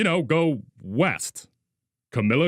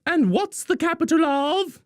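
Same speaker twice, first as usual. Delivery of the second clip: teacher voice; 12 semitones higher than usual. Acted.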